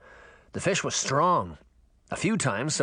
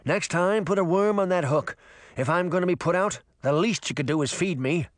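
a touch of huffy fish, pitched up; slightly higher, peeved fish voice; lightly voiced grumbling fish; 5 semitones higher than usual. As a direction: complain mildly as a put-out fish. Fish character complains.

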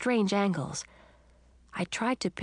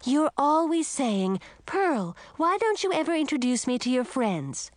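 angry outburst; 6 semitones higher than usual. Acted. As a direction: throw it back at her mother.

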